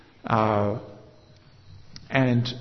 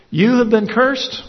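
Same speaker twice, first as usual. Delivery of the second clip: higher, louder judgment on cursed; a judge's raised verdict; stern condemnation; 9 semitones higher, 7 dB louder than usual. Acted. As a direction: pronounce the curse like a king. King condemns the goats.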